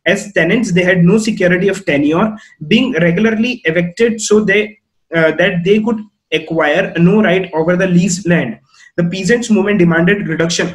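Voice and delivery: slow, deliberate reading of the textbook. Shown as a demonstration. Teacher reading the textbook to students, slow and deliberate. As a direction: read each phrase out slowly for the class.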